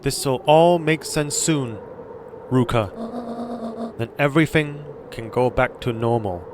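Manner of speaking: put-on slow, soft Asian-accented reassurance. Gran reassuring Luca, soft Asian accent. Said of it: "doing the Asian accent".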